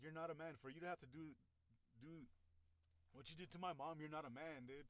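mildly indignant retold scolding; reproachful, without shouting; pissed retort. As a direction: re-enact telling him off, a touch heated. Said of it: "I was pissed".

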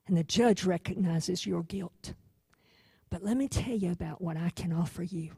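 a gentle attorney comforting his client; hushed, reassuring defense attorney; speaking quietly. Acted. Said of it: "he speaks quietly to her".

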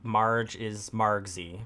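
a touch of a sock puppet voice; goofy muffled sock puppet. Pretend. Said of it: "Doing a good job punching it".

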